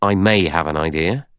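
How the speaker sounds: measured, noncommittal admission; slow, guarded. Acted. Blore answering Rogers, a little slowly. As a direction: admit it with some reserve. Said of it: "said Blore slowly".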